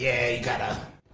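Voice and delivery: raspy smoker voice. Acting out a gas station attendant giving directions: smoker's voice. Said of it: "my man got a smoking voice".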